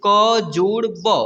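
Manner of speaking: letters joined very slowly; slow spelling out. Shown as a demonstration. Teacher spelling a word for pupils, very slowly. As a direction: sound out each letter very slowly. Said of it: "ऐसे".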